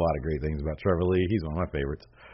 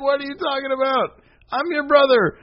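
much higher mock voice, hurt and confused; protesting brother. Brother protesting to Alberto, much higher mock voice. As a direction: squeak out a wounded protest.

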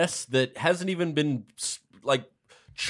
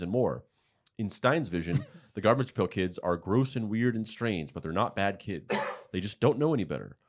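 lower, softer reading voice; news article read-aloud; 4 semitones lower, 9 dB quieter than usual. Acted. Host reading book news to the others, matter-of-fact read. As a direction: read the announcement out evenly.

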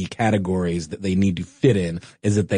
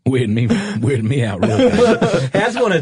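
laughing; 6 semitones higher, 5 dB louder than usual. Real, not acted. Laughing at the accent bit.

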